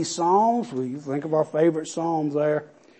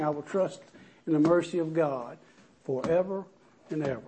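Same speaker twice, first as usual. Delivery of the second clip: soft reverent recitation; 2 semitones lower, 9 dB quieter than usual. Acted.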